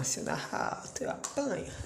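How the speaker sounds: whispered so nobody hears; whispering while someone sleeps nearby. Real, not acted. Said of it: "E eu que não posso narrar alto".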